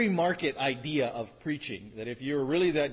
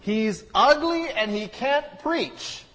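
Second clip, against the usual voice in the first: higher, louder, slow mocking jab; mock critic; 9 semitones higher, 10 dB louder, slower than usual. Shown as a demonstration. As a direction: ham up the insult, slowly. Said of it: "It wasn't supposed to be that funny either".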